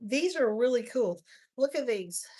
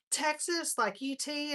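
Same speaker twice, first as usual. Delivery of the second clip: imitating a puzzled, higher-pitched question; questioning disbelief; 5 semitones higher, slower than usual. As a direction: mimic her querying it in a raised pitch. Retold lady questioning her team.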